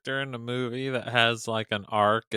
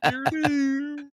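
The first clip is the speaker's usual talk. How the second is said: ominous doom voice; 13 semitones higher than usual. Retold or imitated. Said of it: "Trey Parker did the".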